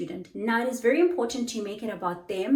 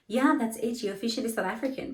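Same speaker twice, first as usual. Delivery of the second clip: playful praise; 4 semitones higher than usual. Retold or imitated. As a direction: tease them warmly as a new South African. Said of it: "I'll always say".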